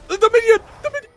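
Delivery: high, loud, urgent shouting; frantic shout. Real, not acted. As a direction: call it out before it's too late. Co-caster pointing at the play.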